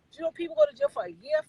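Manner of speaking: high, fast disbelieving question; incredulous rant. Real, not acted. Telling viewers how long jail takes a life, incredulous. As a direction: ask it in disbelief.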